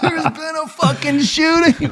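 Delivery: slow, weary explaining. Retold or imitated. Exhausted reply to angry wife.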